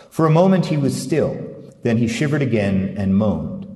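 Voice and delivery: an expressive, measured reading of literary prose; story narration. A narrator's reading. Author reading his novel excerpt to the interviewer, expressive narration. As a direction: read the passage aloud like an audiobook.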